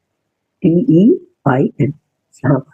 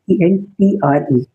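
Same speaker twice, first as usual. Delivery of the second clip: slow letter-by-letter spelling of "ई एन टी आर ई"; careful classroom spelling; spelled slowly; 2 semitones higher, slower than usual. Shown as a demonstration. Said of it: "टी ई आर नहीं".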